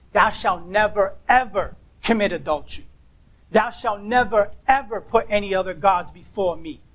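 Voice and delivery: "never" and "ever" each stressed and set apart; firm commandment, pausing after "never"; emphatic NEVER EVER. Shown as a demonstration. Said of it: "the strong adversative for no".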